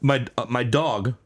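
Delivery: low, soft, halting voice; acted devastated. Announcer hearing bad news about the dog, acted quiet grief. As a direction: trail off into a stunned near-whisper. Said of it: "he gets the call".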